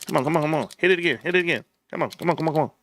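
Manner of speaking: lightly voiced muttering pleas; a hint of begging the pack to hit; pleading card opener. Streamer pleading over card packs, mild mock mutter. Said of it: "I'm like Master Lorian".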